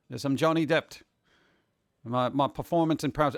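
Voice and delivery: light mock English accent, barely shifted; a half-hearted fake English accent; faux English accent. Posing as Johnny Depp for Tim, mock English accent. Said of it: "I have to put on my faux English accent".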